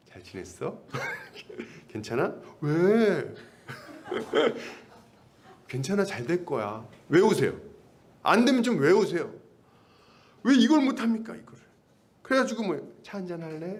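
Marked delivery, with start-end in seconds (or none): 0.1-6.9 gentle caring lines. Shown as a demonstration. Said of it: "잘 안 되시는 분들은 외우세요". 13.0-13.8 softer, gentle offer of tea; soft invitation. Shown as a demonstration. Pastor showing how to invite a newcomer, softly. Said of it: "좀 부드럽게 얘기를 하는 거".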